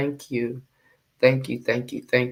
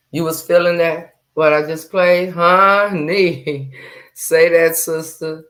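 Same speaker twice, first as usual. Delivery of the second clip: excited hype; 4 semitones higher, 8 dB louder than usual. Real, not acted. Hyped reacting to played sermon clip.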